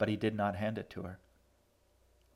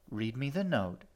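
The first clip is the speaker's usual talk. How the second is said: firmly; 3 semitones higher than usual. Acted. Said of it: "she said firmly".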